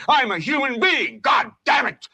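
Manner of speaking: demanding to be heard, shouting; angry shout. Acted. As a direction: shout it like a man fed up. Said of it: "You've got to say".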